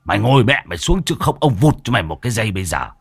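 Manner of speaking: rough threatening scold, speeding up; gruff scolding. Acted. Môn Phọt threatens the intruding ghost, gruff and rough. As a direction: bark at her to sit down.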